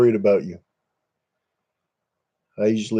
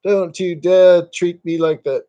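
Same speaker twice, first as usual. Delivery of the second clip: higher, mock snooty English gent; snooty English accent; 6 semitones higher, 3 dB louder than usual. Shown as a demonstration. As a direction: ham up a posh English guy. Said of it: "snooty English guys".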